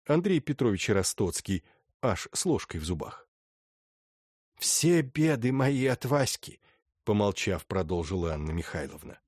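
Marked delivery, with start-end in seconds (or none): 4.6-6.6 lightly voiced stern old lady; a hint of an imperious grande dame; haughty old princess.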